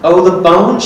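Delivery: imitating Betty. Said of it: "and she laughs".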